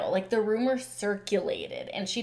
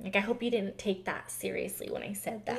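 mock fake apology; 4 dB quieter than usual. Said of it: "just the fake apologies".

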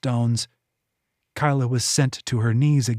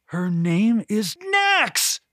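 slow, high ringing cry; shout; 8 semitones higher, much slower than usual. A narrator's reading. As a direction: call the name out slowly and high. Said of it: "came with her shout".

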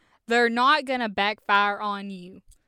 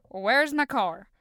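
questioning; 3 dB louder, slower than usual. Retold or imitated. Thinking, then asking Hooper.

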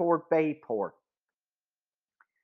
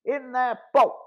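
mild shout; 5 semitones higher than usual. Acted. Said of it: "Fritz Stark shouted".

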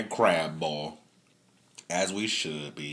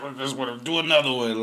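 eager quote; 7 semitones higher, 7 dB louder, faster than usual. Retold or imitated. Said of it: "I was like".

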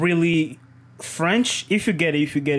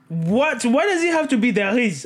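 mock exasperation; 6 semitones higher than usual. Acted exasperation at French word.

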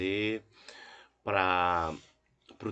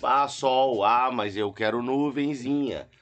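louder, whiny I-want tone; mock demanding bandmate; 4 dB louder than usual. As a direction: play a picky bandmate insisting.

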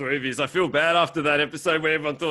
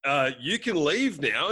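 slow dismissive reply; slower than usual. Acted. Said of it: "And they're like".

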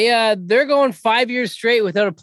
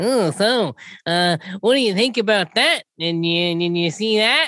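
a lightly voiced dweeby interviewer; mock the son as a dink, only slightly altered; dorky son impression. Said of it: "such a fucking dink sounding person".

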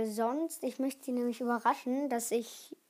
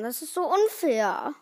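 higher, louder whine of protest; indignant complaint; 4 semitones higher, 5 dB louder than usual. Real, not acted. Kid protesting the ban on gummy bears, indignant. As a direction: complain loudly about the unfairness. Complains about banned sweets.

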